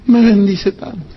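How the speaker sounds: high, wailing mock fan voice, near tears; gushing devotee. Preacher mocking a starstruck fan, high and wailing. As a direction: ham up a besotted follower crying over his idol.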